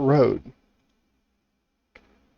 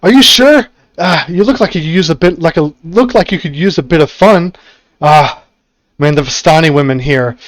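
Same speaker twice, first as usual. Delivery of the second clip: coaxing stranger; 3 semitones higher, 3 dB louder than usual. Acted. Half-mad stranger urging Belial to take his place, light coaxing voice. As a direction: coax him into swapping places. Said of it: "he says".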